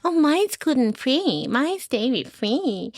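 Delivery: high, prissy mock voice of judgmental moms, lightly done. Mocking other moms' boasts to a podcast host, high and prissy. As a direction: parrot the smug mom-group boasts. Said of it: "some circles can be so judgmental".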